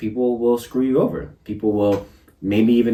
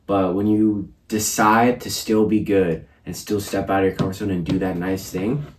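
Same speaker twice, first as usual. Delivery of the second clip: talking with swollen cheeks after wisdom teeth; slightly thick speech from puffy cheeks. Real, not acted. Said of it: "Sorry if my cheeks are all chubby, if I'm talking weird".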